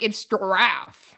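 GIRAFFE drawn out slowly as a correction; corrective pronunciation. Retold or imitated. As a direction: stretch "giraffe" to show both syllables. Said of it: "say that we say giraffe weird".

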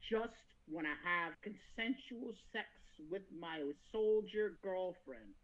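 soft, low, tired plea; understated weary Guts; weary quiet plea. Retold or imitated. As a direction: ask it like an exhausted man. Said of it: "Guts is sitting there just like".

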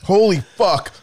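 loud, high pained shout. Real, not acted. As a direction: yell out the burn. Chip burning.

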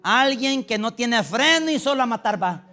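pulpit-pounding sermon delivery; fiery preaching. Real, not acted. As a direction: preach it out hard to the congregation. Preacher building to full force.

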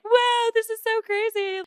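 high, slow, dazed wonder; amazed high drawl. Retold or imitated. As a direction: stretch it out like the drug just hit. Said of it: "and I was like".

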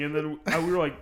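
ordinary talk

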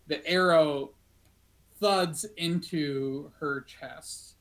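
slow, suspenseful scene setting; measured storytelling with dramatic pauses; game master's narration. Acted. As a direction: draw out the arrow's flight, pausing between phrases.

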